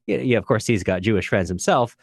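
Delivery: ordinary talk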